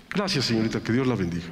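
mean every word of the blessing; sincere, no sarcasm. Shown as a demonstration. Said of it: "Sin sarcasmo".

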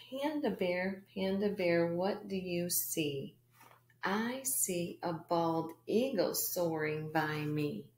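slow, halting first reading, not smooth; choppy first read. Shown as a demonstration. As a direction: read it like you've never seen it. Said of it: "the first time you read it, it's not very smooth".

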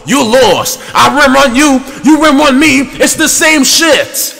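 high-pitched, indignant yelling; heated retort. Real, not acted. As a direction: argue back loudly, point by point. Arguing back at insulting opponent.

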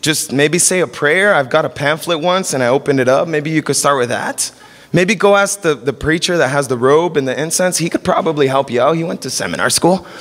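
low, laid-back clueless guy brushing it off; clueless dude. Retold or imitated. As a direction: shrug it off like a guy who knows nothing. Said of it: "I'd be like".

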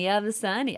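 Yabasani said low in Simlish; imitating Simlish. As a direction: copy the Sim's word Yabasani softly. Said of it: "I keep going lower".

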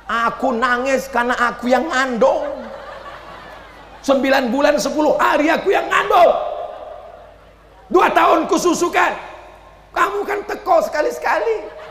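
a wife hitting back at her husband; wife answering her husband, half laughing; arguing wife. Retold or imitated.

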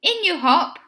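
high, urgent opening call. A narrator's reading. Van driver hurries Benny aboard, urgent call easing off. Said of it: "called the driver".

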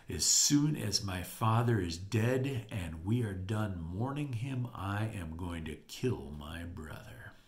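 acted cold, slow menace; furious vow. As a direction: start measured, sink to a near-whisper. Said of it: "he was furious".

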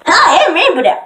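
high, loud, cracking cartoon voice; Rainbow Dash. Rainbow Dash introducing themself, loud high brag. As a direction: push it up loud and cocky.

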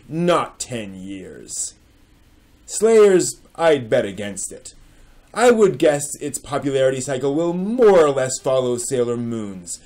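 put-on reading an old forum post aloud with theatrical weight; dramatic reading. Shown as a demonstration. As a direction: declaim the post like a grave pronouncement. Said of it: "Welcome to a dramatic reading".

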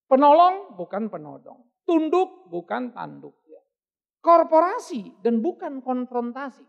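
slow emphatic sermon slogan; slow slogan delivery. Real, not acted. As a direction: preach the wordplay, slowly. Preacher's punchline slogans.

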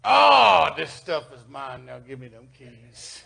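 exclaim, then drop to a low, casual claim; lightly voiced Jesus. Preacher playing Jesus claiming the keys, lightly acted. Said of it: "he went down there and said".

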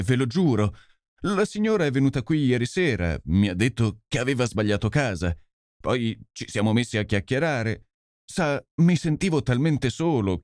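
a lightly voiced, sheepish policeman; guilty constable owning up, half ashamed; contrite constable. Constable confesses to Holmes and Lestrade, sheepish and contrite.

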